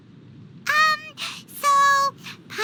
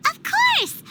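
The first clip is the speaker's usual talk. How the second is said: bright eager exclamation, pitch jumping up; excited; 10 semitones higher than usual. Acted. Paimon eagerly confirming the famous artist. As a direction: sure of herself and thrilled.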